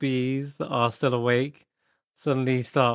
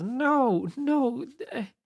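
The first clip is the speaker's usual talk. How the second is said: high, light sprite voice; small fairy queen pleading; 8 semitones higher than usual. Acted. Pollinella character voice.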